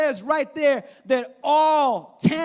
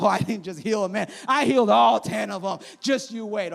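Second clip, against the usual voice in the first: proud declaration; 3 semitones lower than usual. Retold or imitated. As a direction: tell them the best is coming. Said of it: "And Jesus like".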